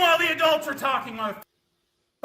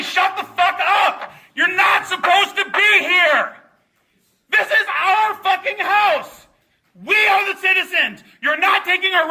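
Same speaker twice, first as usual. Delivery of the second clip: angry shouting; 3 semitones higher than usual. Real, not acted. Yelling at lawmakers.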